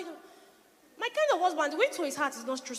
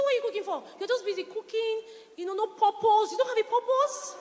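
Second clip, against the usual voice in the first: higher mock of the husband's rebuke, mildly voiced; husband's scolding question; 5 semitones higher than usual. Preacher mimics her husband asking why she cooks, lightly mocking. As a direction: replay the husband's jab a little higher. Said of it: "That's what my husband told me".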